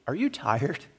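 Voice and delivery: soft, gentle prompting; little inner voice. Retold or imitated. God's quiet prompting to a tired man at prayer, softly voiced. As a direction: ask it softly, like a thought. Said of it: "this little voice said to me".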